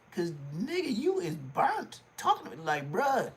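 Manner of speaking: very high-pitched, incredulous impression; scolding, squeaky put-on voice; Crip Mac. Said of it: "I'ma start talking like Crip Mac".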